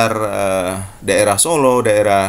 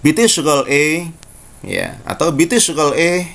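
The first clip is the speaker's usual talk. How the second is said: Egyptian Arabic. Shown as a demonstration. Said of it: "Orang Mesir akan mengatakan".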